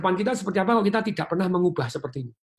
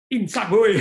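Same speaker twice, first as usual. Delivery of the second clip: louder teasing call; playful shout; 3 semitones higher, 5 dB louder, slower than usual. Acted. Coach teasing the audience to repent, loud playful call. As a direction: tease the crowd loudly.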